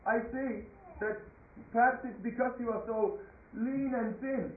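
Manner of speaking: lightly voiced royal sarcasm; sarcastic king. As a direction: needle the weakling with feigned sympathy. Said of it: "He was being very sarcastic".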